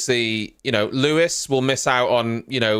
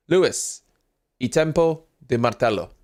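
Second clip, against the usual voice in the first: fake Italian accent. Shown as a demonstration. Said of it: "Luis y Tempo de Martello".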